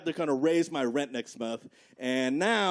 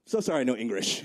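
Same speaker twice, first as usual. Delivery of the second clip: fake broken English; 6 semitones lower than usual. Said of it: "I looked her right in the eye and I said".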